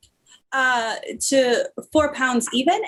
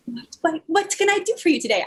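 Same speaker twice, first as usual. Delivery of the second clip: peppy barista voice; 4 semitones higher, faster than usual. Acted. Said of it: "I cannot do a Scottish accent".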